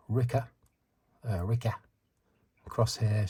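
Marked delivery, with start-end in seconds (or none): 0.1-0.5 Wrecker turned to "Ricker", New Zealand style; New Zealand accent. Retold or imitated. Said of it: "New Zealand accent". 1.4-1.7 Wrecker repeated as "Ricker", New Zealand style; imitated New Zealand vowel in "Ricker"; New Zealand accent. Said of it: "New Zealand accent".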